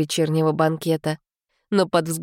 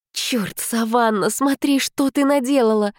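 self-scolding; 5 semitones higher than usual. Acted.

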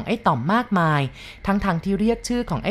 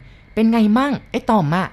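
louder, higher, slow and worried; old cook fearing for the boy she raised; anxious old cook; 4 semitones higher, 5 dB louder, slower than usual. Acted. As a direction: ask in dread.

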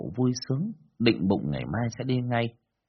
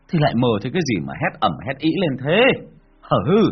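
alarmed husband; 3 semitones higher, 7 dB louder than usual. Acted. Husband asks why she screamed.

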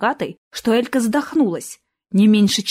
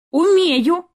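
proud answer, high and louder; 9 semitones higher, 4 dB louder than usual. Acted. Girl proudly telling Dean she can read, high and louder. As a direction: say it with pride, high. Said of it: "гордо призналась Элька".

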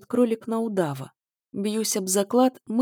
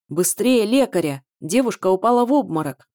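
shouting; 6 dB louder than usual. Acted. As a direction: call for help across the hall. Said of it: "кричал он". (громкий крик о помощи)

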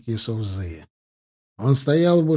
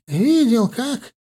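impatient mock echo; 10 semitones higher, 4 dB louder, much slower than usual.

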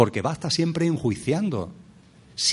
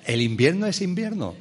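higher-pitched amused repeat; amused restatement; 4 semitones higher than usual. Real, not acted. Speaker resuming after laughing at his solemnity, amused. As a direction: say it again lightly, solemnity dropped. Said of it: "me río de mí mismo".

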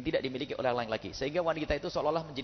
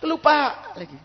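much higher, loud fed-up cry; exasperated shout; 12 semitones higher, 9 dB louder, slower than usual. Acted. Husband fed up with his forgetful wife. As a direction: burst out in frustration.

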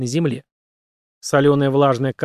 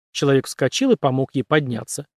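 plain reading voice

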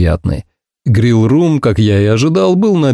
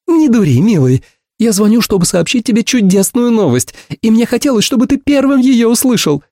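rushing, much higher and bright; blurted out; 11 semitones higher than usual. A narrator's reading. Ursula blurting her big news to her friend, high and eager. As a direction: spill the news in one eager breath. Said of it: "выпалила она".

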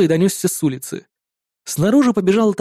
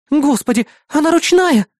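high, louder horrified exclamation; shocked gasp; 8 semitones higher, 3 dB louder than usual. Acted. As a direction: recoil from the tame rat. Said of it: "выдохнула Маруся".

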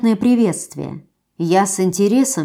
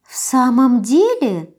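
doubtful drawl; 3 semitones higher, slower than usual. Acted. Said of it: "С сомнением протянула".

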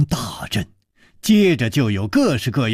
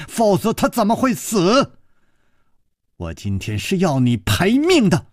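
sharp accusation; 5 semitones higher than usual. Acted. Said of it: "那尖锐的声音".

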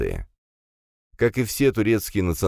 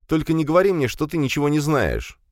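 angry accusation; 10 semitones higher than usual. Acted. Commissar confronts brother.

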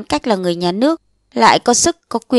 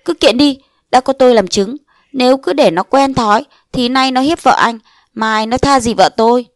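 heated urging; 4 semitones higher than usual. Acted. Neighbour urges a lawsuit.

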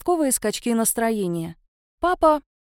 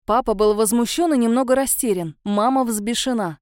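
plain reading voice

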